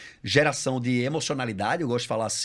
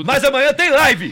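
loud, high, slow exclamation; excited; 11 semitones higher, 14 dB louder, slower than usual. Real, not acted. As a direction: announce it with glee. Exclama com euforia. (empolgado, alto e agudo)

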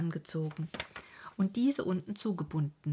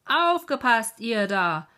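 laut und hoch gebrüllt; geschrien; 4 semitones higher, 11 dB louder, slower than usual. A narrator's reading. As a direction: schrei die Warnung über den Graben. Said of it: "dann schrie er". (lauter Warnschrei)

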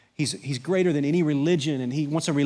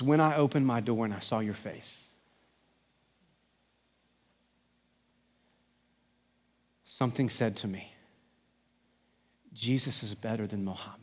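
put-on soft, hushed retelling of the old man's words; hushed reverent quote; 3 semitones lower, 6 dB quieter than usual. Preacher softly quotes the convert's words, hushed and reverent. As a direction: let it drop to a near hush, reverent.

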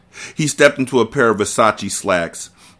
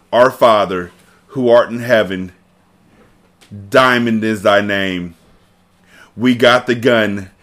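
cartel prayer. Pretend. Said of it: "here's how the cartel will pray".

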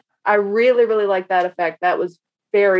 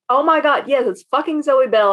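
higher-pitched excited insistence; retold excitement; 5 semitones higher than usual. Fan insisting to Steve she recognized the actress, excitedly. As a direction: re-enact being thrilled and certain. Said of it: "I was so excited".

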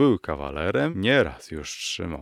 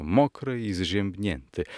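usual speaking voice

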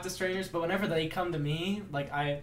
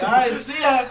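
loud but less forceful farewell; retold called-back reply; 8 semitones higher, 10 dB louder than usual. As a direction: lightly holler back to the next car. Teller replies to the shouted farewell.

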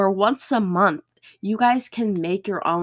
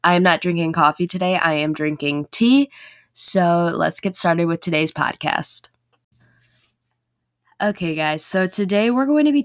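hoarse after a sore throat. Real, not acted. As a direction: talk through a recovering sore throat. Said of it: "My voice sounds a little bit different".

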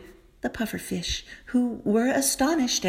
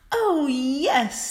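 higher, louder happy exclaim; joyful; 5 semitones higher, 4 dB louder than usual. Acted. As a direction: burst out with joy. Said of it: "the mermaid laughed, clapping her hands with joy".

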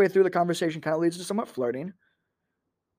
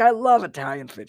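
louder, keen declaration of love; emphatic agreement; 2 semitones higher, 6 dB louder than usual. Retold or imitated. Comic answering his date about food, emphatic agreement. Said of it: "like, second language English conversation".

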